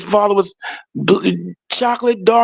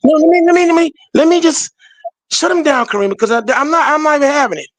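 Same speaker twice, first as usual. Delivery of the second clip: calm turning angry; 2 semitones higher than usual. Real, not acted. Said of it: "I don't mean to lose it".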